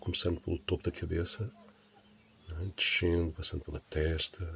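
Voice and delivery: unhurried body-scan guidance with long pauses; guided meditation. Acted. Teacher leading listeners through relaxing the body, guided meditation voice. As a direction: guide them gently down the body, phrase by phrase.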